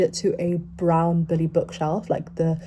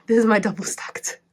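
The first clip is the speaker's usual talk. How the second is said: laughing; 4 semitones higher than usual. Real, not acted. Laughs while showing shelf.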